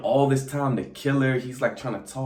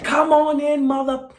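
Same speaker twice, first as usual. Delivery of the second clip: much higher, louder, eerie come-on; sing-song sinister vampire welcome; creepy vampire invite; 7 dB louder than usual. Retold or imitated. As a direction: lure them in like a newly turned vampire. Grace bitten, turns vampire, invites them.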